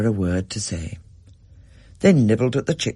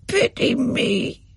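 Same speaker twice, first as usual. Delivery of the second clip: high, slow, mournful croak; sad bird voice; 13 semitones higher, much slower than usual. A narrator's reading. The white bird pleads to Rachel, high slow mournful croak. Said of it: "said the white bird".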